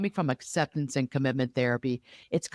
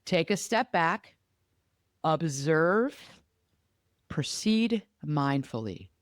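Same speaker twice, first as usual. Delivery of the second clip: slow step-by-step; slower than usual. Shown as a demonstration. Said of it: "So stop".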